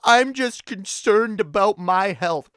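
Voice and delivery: slow, whiny fake-concerned voice; mock concern. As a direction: parody a pretend worried skeptic.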